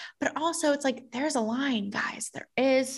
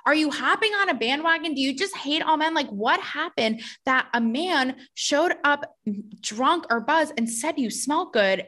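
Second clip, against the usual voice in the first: lightly mocking, higher on the pointed questions; mock concern; 4 semitones higher than usual. Podcaster mocking an actress's post with fake concern. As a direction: ask it like a fake-worried friend. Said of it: "looking at it being like".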